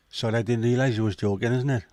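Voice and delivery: exaggerated North Welsh twang; mock North Wales accent. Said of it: "Yous don't even talk like that".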